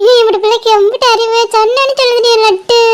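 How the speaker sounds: sing-song doting auntie; delighted baby talk. Acted. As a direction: marvel fondly at a clever infant. Delighted praise of baby's babble.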